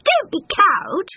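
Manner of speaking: high, drawn-out urging; slow, high-pitched cow; goading cow. A narrator's reading. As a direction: wail encouragement at a cowardly husband. Cow goads frightened bull.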